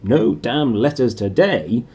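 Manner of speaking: understated triumphant uncle; happy uncle. Acted. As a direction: smugly reassure the family. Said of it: "he reminded them happily".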